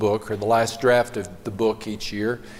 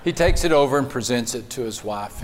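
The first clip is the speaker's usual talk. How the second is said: ordinary talk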